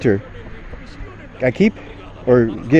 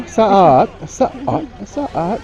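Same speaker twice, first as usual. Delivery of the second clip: calling elephant; 9 semitones higher, much slower than usual. Real, not acted.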